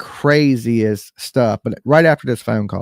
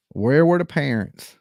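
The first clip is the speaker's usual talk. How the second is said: Nancy. Acted. Host repeating the question to listeners, understated Nancy impression. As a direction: lightly put on the voice for the question. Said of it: "In my best Nancy voice".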